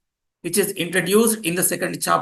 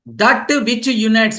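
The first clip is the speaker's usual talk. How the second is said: slow dictation; 3 semitones higher, slower than usual. Shown as a demonstration. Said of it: "please underline those who are writing the notes".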